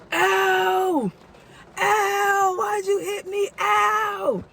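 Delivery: high, whining cries of pain; whiny hurt man. Retold or imitated. Thief whining at the narrator after being hit. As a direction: whimper it like a beaten thief.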